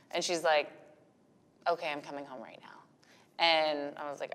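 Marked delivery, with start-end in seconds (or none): 1.7-2.7 soft whisper, no voice; whispered reply. Retold or imitated. Mom retelling her daughter's whispered reply, softly. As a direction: hush it like a gentle giving-in.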